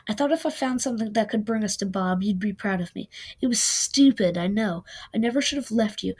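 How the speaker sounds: reads the novel aloud, giving the lovers' fight some life; lightly acted audiobook read; story reading. A narrator's reading. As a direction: narrate it like a reader sharing a favourite chapter.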